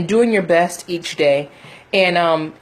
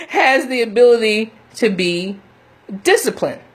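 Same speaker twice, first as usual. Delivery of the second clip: laughing; 4 semitones higher than usual. Real, not acted. Laughs mid-sentence.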